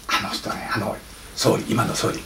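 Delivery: hushed, leaning in with a secret; conspiratorial whisper. Retold or imitated. Speaker confides the rumour to the audience, whispering. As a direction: drop to a whisper as if sharing gossip. Secret about prime minister.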